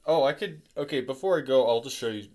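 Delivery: groggy morning voice; sleepy, just out of bed; just woke up. Real, not acted. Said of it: "my voice is kinda like, because I just woke up".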